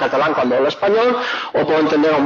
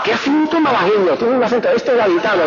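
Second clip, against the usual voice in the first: higher-pitched exclamations of put-on amazement; mock astonishment; 5 semitones higher than usual. Madrileño reacting to southern accents, mock astonished. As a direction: marvel aloud at how people talk.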